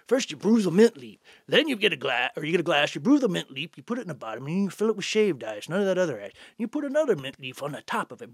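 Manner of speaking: a light impression of an old Southern gent; old Southern senator. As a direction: lecture on the mint julep like a fussy old senator. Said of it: "he goes".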